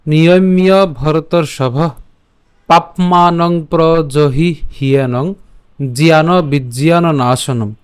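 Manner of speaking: slow, measured Sanskrit chant; verse recitation. Shown as a demonstration. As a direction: recite each word slowly and clearly. (ধীরে ধীরে শ্লোক আবৃত্তি)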